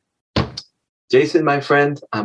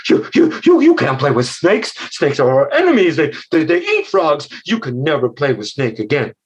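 alarmed mother frog. Acted. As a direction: stammer in shock, then lay down the rule. Mother frog forbids friendship.

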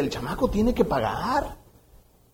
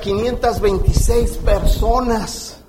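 building emphatic list; slower than usual. Shown as a demonstration. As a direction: proclaim each item slowly and forcefully. Preacher builds list to a shout.

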